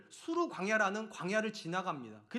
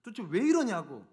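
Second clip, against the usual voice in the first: angry complaint; 3 semitones higher than usual. Retold or imitated. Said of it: "모세한테 가가지고 화를 내는 거예요". (화내며 따지는 백성 흉내)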